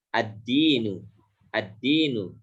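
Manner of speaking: "Ad-dinu" with no l and a doubled d; assimilated lam. Shown as a demonstration. Teacher models dal for students, "Ad-dinu" with the l merged into d. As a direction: go straight into a held d in "Ad-dinu". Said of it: "huruf dal termasuk syamsiah".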